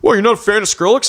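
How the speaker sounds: quick, high mock-innocent question; needling imitation. Coworker keeps pushing about the haircut, needling.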